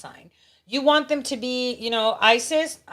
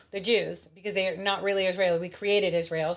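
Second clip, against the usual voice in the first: usual speaking voice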